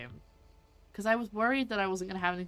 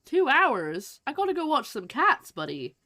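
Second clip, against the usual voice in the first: surprised outburst; 7 semitones higher, 7 dB louder, slower than usual. Real, not acted. Shocked at the fishing wait.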